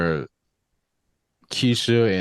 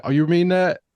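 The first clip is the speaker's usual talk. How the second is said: high, louder surprised squeal; a hammed-up gasp of disbelief; mock surprise; 9 semitones higher, 4 dB louder than usual. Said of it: "they was like".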